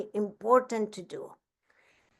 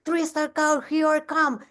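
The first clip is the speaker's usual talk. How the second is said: higher, gushing friend; mock excited squeal; 5 semitones higher than usual. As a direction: gush like a thrilled teammate. It's like.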